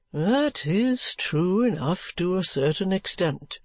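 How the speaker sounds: slow and gentle concession; softened. Acted.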